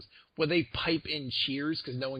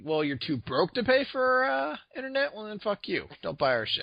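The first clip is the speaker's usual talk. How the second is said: loud, brash brush-off; scornful, punched-up quote; dismissive mock reply; 6 semitones higher, 5 dB louder than usual. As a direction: imitate a company telling customers off. Voicing the company's dismissive reply.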